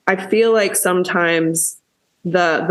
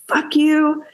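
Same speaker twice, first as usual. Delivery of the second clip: retold furious rant; 8 semitones higher than usual. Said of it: "I was so mad with this command sergeant major".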